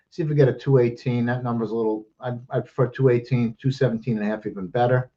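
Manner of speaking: breathless after rushing through picks; winded, pushing the words out; out of breath. Real, not acted. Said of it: "And I'm out of breath".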